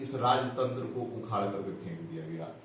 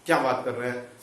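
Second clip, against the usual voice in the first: imagined student doubt; faster than usual. Retold or imitated. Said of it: "आप भी सोच रहे होंगे कि".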